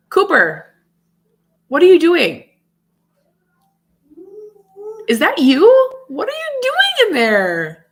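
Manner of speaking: surprised shout to her son; calling out. Real, not acted. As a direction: call out to find him. Calls out to Cooper nearby.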